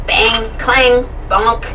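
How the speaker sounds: punchy, rhythmic breakdown sound words; car noises. A narrator's reading. Narrator tells children how the car goes, car noises. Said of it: "The car goes".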